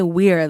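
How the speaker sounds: "weir" with an ee vowel; accented pronunciation. Shown as a demonstration. Reader tries out how somebody could say it, "weir" with an ee sound. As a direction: say "weir" to rhyme with "beer". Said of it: "What type of accent is that?".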